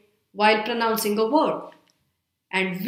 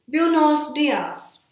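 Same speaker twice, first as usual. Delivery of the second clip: slow, drawn-out Spanish greeting; projected energy; 5 semitones higher, much slower than usual. Shown as a demonstration. Teacher demonstrating an energetic Spanish greeting, slow and projected. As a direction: stretch out each word with energy. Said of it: "let's project some energy and say".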